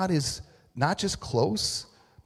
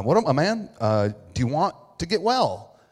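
higher, louder breezy greeting; casual street greeting; 4 semitones higher, 4 dB louder than usual. Retold or imitated. Jesus greeting the man at the pool breezily. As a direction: greet him like an old buddy on the corner. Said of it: "This is my version".

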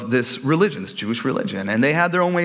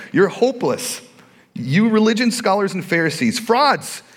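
higher-pitched scolding, a touch of accusation; mild rant; 5 semitones higher than usual. Acted. Preacher reads Jesus rebuking the Pharisees, a mild rant. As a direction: read it as a lightly acted rebuke. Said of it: "he's on this rant".

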